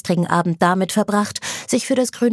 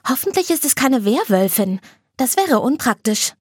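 put-on higher girlish voice; a hint of the chirpy friend; Anna, worried-light; 6 semitones higher than usual. Anna musing to Light about werewolves, lightly girlish.

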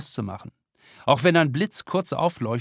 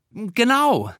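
put-on girl voice; 11 semitones higher, 5 dB louder than usual. A narrator's reading. Twin answers teacher.

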